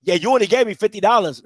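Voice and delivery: low, lazy mock dude voice; lightly voiced clueless dude; mumbling dude. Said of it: "he be like".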